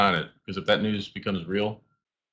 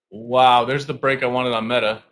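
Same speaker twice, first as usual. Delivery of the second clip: excited; 3 semitones higher, 6 dB louder than usual. Real, not acted. Break on Meta.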